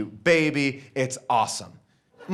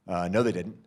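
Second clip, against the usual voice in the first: dismissive man; 11 semitones lower, 3 dB quieter than usual. Retold or imitated. Man denies, voiced low.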